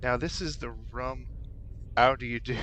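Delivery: a hammed-up, bad Cockney accent; a clumsy put-on Cockney mop girl accent; terrible Cockney accent. Gamer voicing the mop girl in a bad Cockney accent. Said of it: "that terrible accent".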